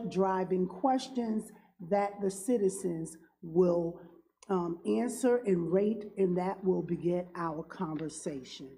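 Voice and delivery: talking around a cough drop; mouth full. Real, not acted. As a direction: speak with a lozenge in mouth. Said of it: "a cough drop in my mouth".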